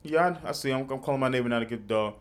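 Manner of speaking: calm, soft and unbothered; cool and calm. Retold or imitated. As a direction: say it coolly, no fuss. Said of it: "cool, calm, and collected".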